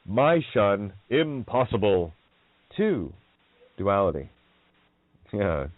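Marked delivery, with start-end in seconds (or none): 0.0-3.1 "My Shun" said as two separate words, slowly; deliberate, spaced-out "My Shun", then a separate "Two"; split-word title. Shown as a demonstration. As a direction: slowly pull "Mission" apart into "My Shun". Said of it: "How about this?".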